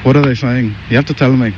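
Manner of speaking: put-on Irish accent. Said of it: "I have the Irish accent".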